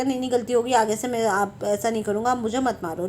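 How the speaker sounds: lightly acted low-key pleading; calming down. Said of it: "उसको calm down करेगा". (हल्के से शांत कराते, मिन्नत करते हुए)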